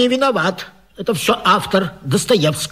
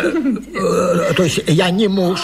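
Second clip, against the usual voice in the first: flustered laugh through the words; embarrassed man chuckling at his slip; nervous laugh; slower than usual. Acted. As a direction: laugh it off, caught out. Embarrassed husband caught under bed.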